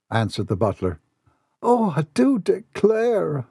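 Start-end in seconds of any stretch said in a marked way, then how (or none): 1.6-3.4 groaning. Acted. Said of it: "Lily Lou groaned".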